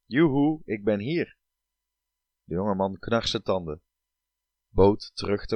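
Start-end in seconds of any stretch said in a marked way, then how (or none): 0.1-1.4 calling out. Acted. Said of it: "riep het".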